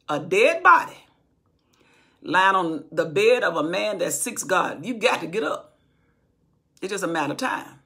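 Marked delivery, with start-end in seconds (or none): 0.1-5.8 rising preacher's call that the dead get up; preaching at full force. Real, not acted. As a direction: proclaim it so the back row hears. Preacher repeats it louder.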